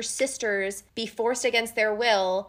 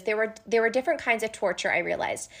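reading the quote; 2 semitones lower than usual. Acted. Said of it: "as Feyre has this line".

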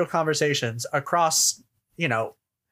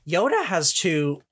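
slow phrase with an accidental crack; 3 semitones higher, slower than usual. Real, not acted. Host starting a point about Yoda, voice cracking. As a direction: voice cracking mid-phrase, drawn out. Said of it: "there was a voice crack".

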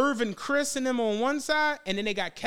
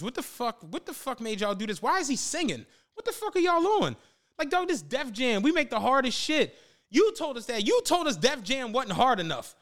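mock outrage; 4 semitones higher than usual. Label's outraged reaction acted out.

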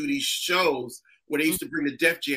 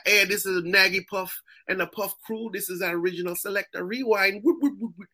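Jamaican selector hyping a crowd; lightly put-on Jamaican accent with whoops. Comic spoofing a candy commercial as a Jamaican, Jamaican accent. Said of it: "put a Jamaican in it".

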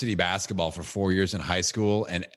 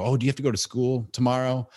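higher, teasing sing-song; 6 semitones higher than usual. Retold or imitated. Dad teasing his son about school, playful and higher. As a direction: rub it in playfully. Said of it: "I go".

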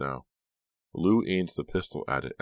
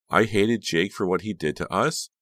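shaking with anger; 5 semitones higher, 6 dB louder than usual. A narrator's reading. Ava pouring out grievances.

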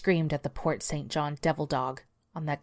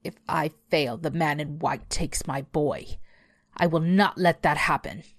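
determined beast. Acted. Beast vows.

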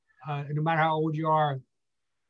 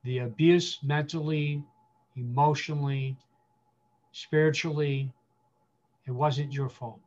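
stand-in father's apology. Pretend. Pastor speaking as the absent father to hurt listeners, gently sorry. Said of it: "let me stand in that and say".

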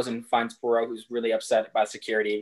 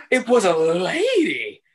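put-on little girl voice; 5 semitones higher, 4 dB louder, slower than usual. Little girl reveals clue.

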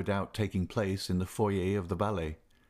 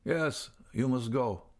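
slow, higher-pitched, smiling doctor; pleasant smile; 4 semitones higher, slower than usual. A narrator's reading. Doctor sending the young man away, mildly pleasant. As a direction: send him off pleasantly and slowly. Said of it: "said the doctor with his pleasantest smile".

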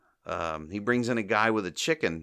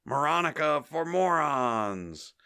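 slow, higher-pitched slogan call; mock sloganeering; 6 semitones higher, slower than usual. Balcony speech to a massive crowd, drawn-out mock slogan. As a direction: draw out a rally slogan.

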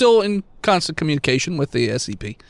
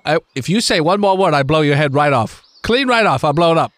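menacing threat. Acted. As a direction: threaten to blow his head off. Character threatens to blow head.

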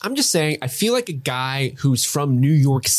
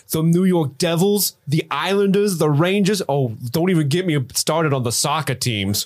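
put-on New York accent; 2 semitones higher than usual. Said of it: "You got Boston for a second".

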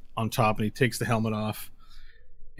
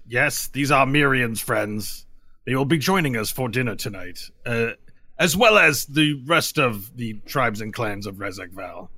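measured, formal announcement in character; Zursa. Acted. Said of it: "Zursa looks at them and says".

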